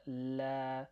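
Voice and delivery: "la" with the a held long; slow, lengthened "la"; long vowel. Shown as a demonstration. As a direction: stretch out the vowel in "la". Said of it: "The same kind of length".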